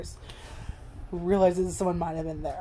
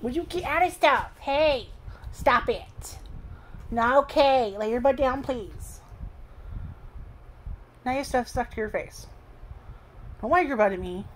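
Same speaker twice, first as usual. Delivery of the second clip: talking to the dog; 6 semitones higher than usual. Real, not acted. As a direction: tease Barney like a fussing pet owner. Owner scolds the dog playfully.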